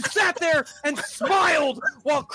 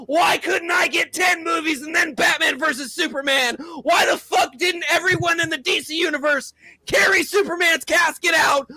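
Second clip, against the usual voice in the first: whiny fan; 4 semitones higher than usual. Retold or imitated. Mocking fans comparing it to Marvel, in a crybaby wail. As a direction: wail like a spoiled kid. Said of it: "and went".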